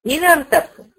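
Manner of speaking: إن ارتبتم said high, in with a kasra on the nun, in-irtabtum; pronunciation demo. Shown as a demonstration. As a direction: model the linking kasra on إن. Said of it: "فالعلماء حركوا النون بالكسر".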